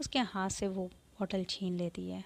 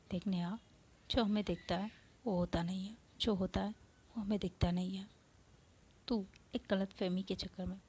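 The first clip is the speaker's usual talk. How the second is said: serious. Acted. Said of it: "Avantika serious हो जाती है".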